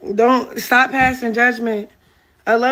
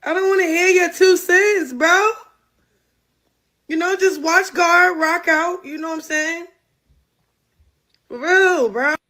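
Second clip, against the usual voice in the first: no teeth, lips slack on every word; toothless; 4 semitones higher than usual. Real, not acted. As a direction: talk with your teeth taken out. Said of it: "let me take my teeth out".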